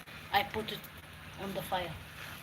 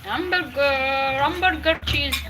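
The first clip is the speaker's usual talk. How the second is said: put-on higher, slow sing-song child voice; imitating her little son; 4 semitones higher, 6 dB louder, slower than usual. Mother recalling her son's childhood phrase, higher sing-song child imitation. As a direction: drawl "hamburger cheese" like a toddler calling out. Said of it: "Who was, who was saying like that?".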